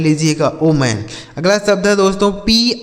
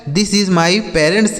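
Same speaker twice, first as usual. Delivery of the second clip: slow example reading; much slower than usual. Shown as a demonstration. Teacher repeats example sentence slowly.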